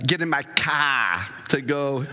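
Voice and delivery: slow, drawn-out imitation Boston accent; put-on Boston accent, taken slowly. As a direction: lightly imitate a Boston accent, stretching the words.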